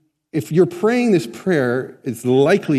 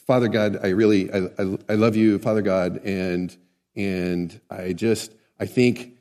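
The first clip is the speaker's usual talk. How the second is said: babbling prayer; 5 semitones lower, 3 dB quieter than usual. Retold or imitated. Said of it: "I don't speak like that".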